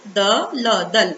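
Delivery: द and ल apart, then joined as दल; sounding out. Shown as a demonstration. Teacher teaching children to read दल, sounding out. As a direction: blend द, ल into दल, letter by letter. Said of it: "तो इसको हम पढ़ेंगे".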